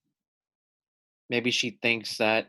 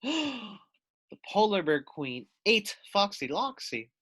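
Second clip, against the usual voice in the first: slow, gasped shock; gasping shock; 6 semitones higher, slower than usual. Real, not acted. Teacher reacting to the story with a gasp. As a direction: react with mock horror.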